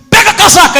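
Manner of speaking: high, loud one-word order; loud strict master's order; sharp command. Retold or imitated. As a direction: snap the boy back to work.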